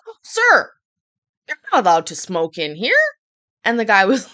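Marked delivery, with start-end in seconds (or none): 0.1-3.0 polite manager voice. Retold or imitated. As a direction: put on an overly polite clerk. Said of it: "he goes".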